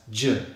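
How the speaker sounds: isolated buzzing "j" sound; voiced consonant. Shown as a demonstration. Teacher showing learners the first sound, voiced consonant. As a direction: say "j" with vocal cords vibrating. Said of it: "voiced consonant sound".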